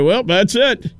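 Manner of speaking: casual imitated sign-off; matter-of-fact tour guide. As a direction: state it as the simple end of the tour. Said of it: "I was just shocked when he said".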